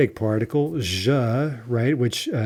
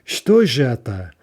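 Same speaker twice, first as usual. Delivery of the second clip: slow, louder "Что же это", emphatic же; bewildered question; 5 dB louder than usual. Acted. Yevgeny finding the hut gone, bewildered emphatic question. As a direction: ask "Что же это" slowly, upset and perplexed. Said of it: "bewildered, right? And he's like".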